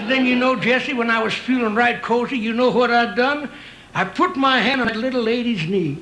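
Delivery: a hint of a grizzled ranch hand; old Western cowboy. Old cowboy reminiscing to his pal.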